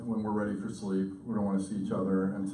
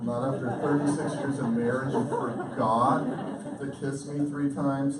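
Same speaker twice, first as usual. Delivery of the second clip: mock indignation; 3 semitones higher, 4 dB louder than usual. Mock reproach over forgotten kisses.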